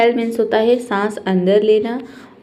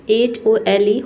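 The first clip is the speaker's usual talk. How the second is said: spelled out slowly; much slower than usual. Shown as a demonstration. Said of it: "आप देखिए".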